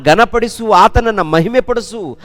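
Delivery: full-force preaching. Acted. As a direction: proclaim each line like a rising altar call. Preacher urging praise of God. (ಏರುತ್ತಿರುವ ಜೋರಾದ ಉತ್ಸಾಹದ ಪ್ರವಚನ)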